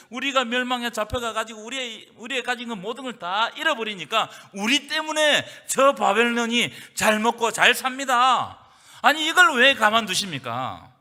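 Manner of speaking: pleading outcry at God; rising protest. Acted. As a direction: build the complaint into a shout.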